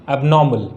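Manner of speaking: एबनॉर्मल with silent r, "ab-NAW-mul"; correct pronunciation. Shown as a demonstration. Teacher drilling what we read, correct pronunciation. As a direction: say एबनॉर्मल without sounding the r. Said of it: "क्या पढ़ते हैं?".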